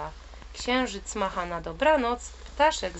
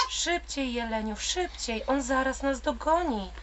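high, urgent little bird urging faster; urgent call; 5 semitones higher than usual. Acted. Little bird urging the deer to run from the wolf, high and urgent. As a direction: hurry him on, half panicked. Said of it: "wołał mały ptaszek".

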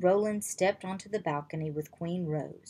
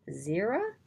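questioning. Acted. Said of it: "asked Anna".

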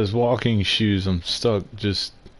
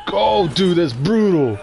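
high, louder burst of disbelief; real shock at the gore, pitched up; amazed reaction; 10 semitones higher, 5 dB louder, slower than usual. Real, not acted. Streamer reacting to a gory death, excited and high.

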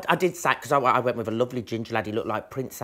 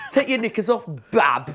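loud, higher mock Birmingham come-on; Birmingham accent; 8 semitones higher, 6 dB louder than usual. Friend does a Brummie chat-up line, loud mock Birmingham accent. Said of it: "Birmingham was voted the worst accent".

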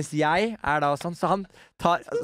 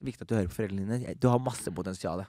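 understated, lowered voice for the uncle; dying uncle's advice; 4 semitones lower than usual. Retold or imitated. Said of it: "så sier han sånn".

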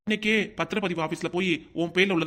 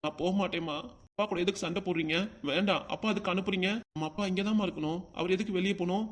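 put-on pleading child. Child begs mother to stop.

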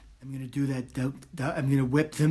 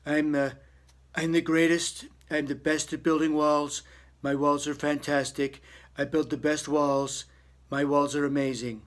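boastful Trump impression. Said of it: "And Trump's also very boastful".

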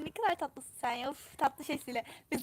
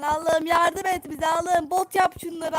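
pleading prayer; 2 semitones higher, 5 dB louder than usual. Real, not acted. Desperate prayer mid-match.

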